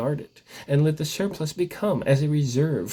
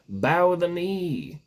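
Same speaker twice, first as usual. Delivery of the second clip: slow proclamation; 5 semitones higher, much slower than usual. Acted. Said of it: "the servants proclaimed before him".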